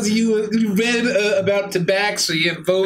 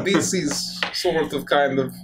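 put-on slow, low Eastern European accent; 4 semitones lower, 3 dB quieter, slower than usual. Player practising the assigned voice, Eastern European accent. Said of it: "you now speak with an Eastern European accent".

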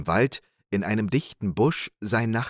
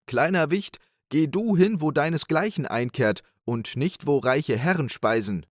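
much higher, mocking townsman; high scornful voice; 7 semitones higher than usual. A narrator's reading. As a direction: look down on a small boy. Townsman scolds the boy.

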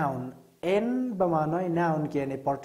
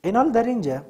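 ordinary delivery

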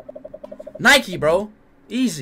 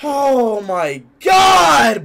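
shocked exclamation; much slower than usual. Real, not acted.

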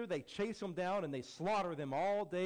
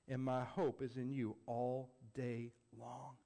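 whisper; 5 semitones lower, slower than usual. Acted. End of Psalm, hushed.

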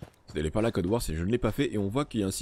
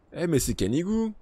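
delighted surprise; 9 semitones higher, 3 dB louder than usual. Real, not acted. Spots his dog companion in game.

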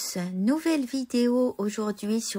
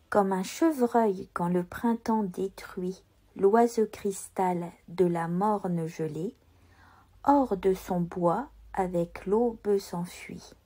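slow, softer, measured verse reading; lecture de poème; 2 semitones lower, 3 dB quieter than usual. Shown as a demonstration. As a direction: read the poem slowly, sounding the E before consonants. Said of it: "lire correctement notre poème". (lecture poétique lente et posée, e accentués)

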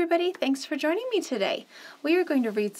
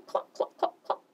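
hen clucking; faster than usual. Acted. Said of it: "said the hen".

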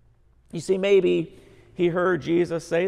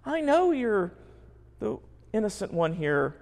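pleading criminal. Acted. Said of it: "The criminal cries out".

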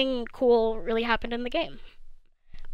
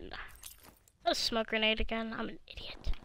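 unvoiced muttered whisper to self; self-scolding whisper; 9 dB quieter than usual. Real, not acted. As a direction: breathe it out under your breath.

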